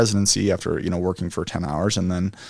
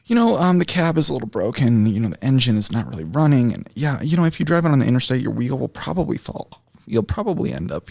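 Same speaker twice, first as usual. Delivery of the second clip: higher, muffled voicemail voice; hand over mouth; 4 semitones higher than usual. Retold or imitated. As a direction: talk like a muffled phone message. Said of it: "I was making it muffle, like the voicemail".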